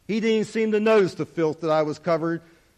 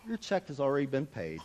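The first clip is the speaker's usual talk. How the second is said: tearful; 5 semitones lower, 12 dB quieter than usual. Real, not acted. Teller moved to tears retelling the host's words. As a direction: voice catching with real tears.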